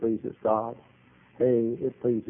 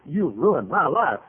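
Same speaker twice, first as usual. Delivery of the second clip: slow, wavering, higher lament; mock wailing accusation; 4 semitones higher, slower than usual. Lady accusing the preacher in his office, slow mock wail. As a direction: drag the words out in a mimicked wail. Acting lady's accusation, rising take.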